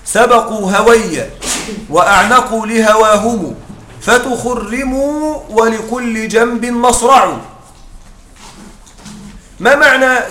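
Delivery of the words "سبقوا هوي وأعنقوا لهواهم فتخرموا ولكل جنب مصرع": slow chanted reading of the verse; poem recitation. Shown as a demonstration. Teacher slowly reciting al-Hudhali's verse to class. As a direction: recite the line slowly and evenly. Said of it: "قال الهذلي".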